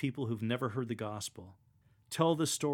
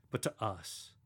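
personal; 3 semitones lower, 4 dB quieter, slower than usual. Shown as a demonstration. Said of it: "say it as if you're speaking personally".

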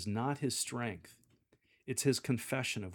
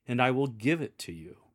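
smiling promise; 4 dB louder than usual. Shown as a demonstration. Lector looking up at congregation, smiling promise. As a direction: promise it with a smile. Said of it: "Look up from the lectionary with a smile".

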